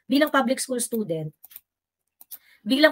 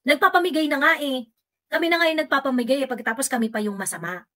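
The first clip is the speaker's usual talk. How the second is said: mock defensive retort; 4 semitones higher, faster than usual. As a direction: sneer back like a huffy supporter. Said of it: "ang naging sagot ni ng mga kakamping is". (mapang-asar na mataas na sagot)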